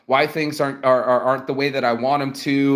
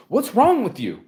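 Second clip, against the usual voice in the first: high, pushed-up disbelief at her; who hurt you, pitched high; retold rant to the rude client, pitched high; exasperated rant; 6 semitones higher than usual. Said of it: "And I'm like".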